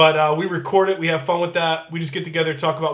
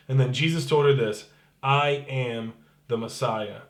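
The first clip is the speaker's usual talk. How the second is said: scripture reading; 2 semitones lower than usual. Acted. Pastor reading John four to his online church, calm and measured. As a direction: read the passage steadily, letting each line land.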